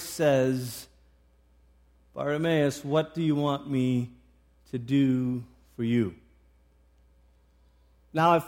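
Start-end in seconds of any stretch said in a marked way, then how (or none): 2.1-6.1 low, gentle, measured question; kind voice. Acted. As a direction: ask tenderly and unhurriedly, with room to answer. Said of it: "he hears the kind voice".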